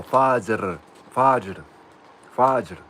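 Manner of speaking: Fajr tried again and again, each a little differently; learner's attempts at Fajr; trying out Fajr. Shown as a demonstration. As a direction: sound out Fajr carefully, testing it. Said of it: "tell me if I'm saying this right".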